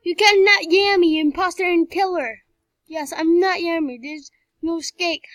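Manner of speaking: loud, high villain threat; mad scientist. Pretend. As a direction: shout it like a crazed villain.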